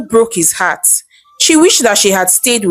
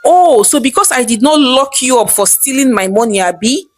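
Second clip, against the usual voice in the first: angry; 2 semitones higher than usual. Acted. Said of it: "Bode said angrily".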